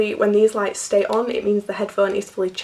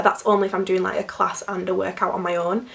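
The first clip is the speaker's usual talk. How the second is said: hoarse from a cold; croaky, recovering voice. Real, not acted. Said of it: "Excuse my croaky voice".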